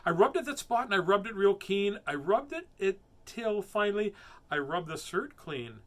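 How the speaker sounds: put-on measured, animated children's storytelling; expressive storybook narration, stressing key words; story reading. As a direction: read it to kids with lively swings. Reads a rhyming story aloud.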